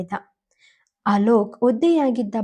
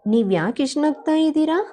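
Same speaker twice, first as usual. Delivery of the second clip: confused; 5 semitones higher, faster than usual. Acted. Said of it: "ಗೊಂದಲದಿಂದ ಕೇಳಿದಳು".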